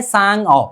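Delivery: सांग अ broken in two, "saang, o"; wrongly split word. Shown as a demonstration. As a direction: split सांग अ, closing on ng before a separate vowel. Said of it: "बोलने में तो ऐसा ही लगता है".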